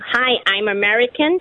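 put-on American accent in a short demo. Shown as a demonstration. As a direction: do a rough attempt at American. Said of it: "American, and it's this".

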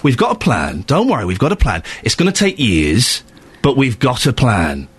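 mock the council's smug promise; mocking dismissive quote. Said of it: "to say to the residents".

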